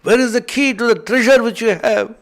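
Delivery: a lightly voiced dacoit, loud and bullying; rough robbers' demand. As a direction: bark at him like a bandit after the key. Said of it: "broke open the doors and said".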